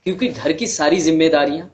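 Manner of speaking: measured storytelling with long pauses; understated monologue, pausing heavily between sentences; dramatic monologue. Acted. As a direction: recount a hard life story in earnest, phrase by phrase.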